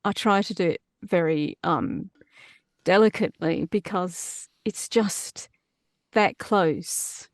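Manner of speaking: delicate Australian accent; a light, careful Australian accent, not overdone. Shown as a demonstration. Demonstrating Australian for the curious host, delicate Australian accent. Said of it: "when I do Australian".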